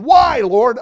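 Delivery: very high, loud plea of why; a wailing imitation of complaint; mock crying out. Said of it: "crying out, going".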